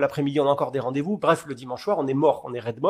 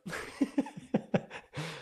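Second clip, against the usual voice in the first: laugh; 2 semitones higher, 11 dB quieter than usual. Real, not acted. Laughing at the golf memory.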